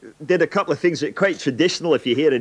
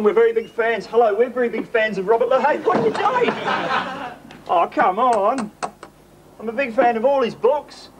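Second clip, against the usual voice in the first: raised voice, hammed-up pleading at a locked door; mock pleading fan; 6 semitones higher than usual. The speaker outside Stevenson's birthplace begging to enter, hammed-up pleading. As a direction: beg to be let in like a desperate superfan.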